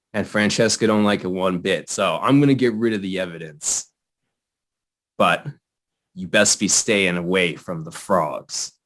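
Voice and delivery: put-on the frog-hoarding NPC warns the player in a mild gangster accent. Gangster accent, barely shifted. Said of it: "a more stereotypical gangster accent".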